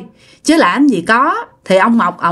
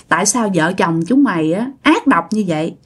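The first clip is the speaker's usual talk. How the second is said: scolding; 4 semitones higher than usual. Retold or imitated. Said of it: "cái bả chửi".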